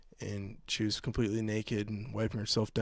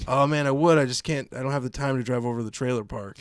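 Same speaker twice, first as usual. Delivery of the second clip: smug comeback; 2 semitones higher, 6 dB louder than usual. Retold or imitated. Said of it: "I was gonna say".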